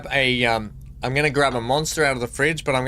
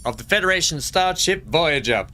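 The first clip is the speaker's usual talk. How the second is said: Janeway impression; 3 semitones higher than usual. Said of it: "That's how she used to say it".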